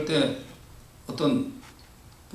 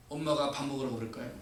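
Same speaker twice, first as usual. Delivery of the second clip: normal talking voice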